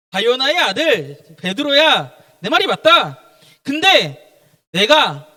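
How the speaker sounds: acted authoritative teacher, loud and deliberate; Jesus. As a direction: address the disciple with loud, measured weight. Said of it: "예수님께서 뭐라 그러냐?". (크고 또박또박한 스승 말투)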